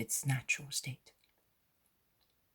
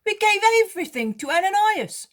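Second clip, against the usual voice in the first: higher, louder voice for Peter; Peter, remarking; 12 dB louder, faster than usual. Acted. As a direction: Peter pressing a worried point, raised and high. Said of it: "remarks Peter".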